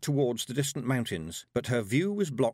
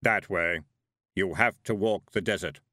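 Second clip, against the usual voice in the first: heavy thundering voice; 2 semitones lower, 4 dB louder than usual. A narrator's reading. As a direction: let it rumble like distant thunder. Death points the way.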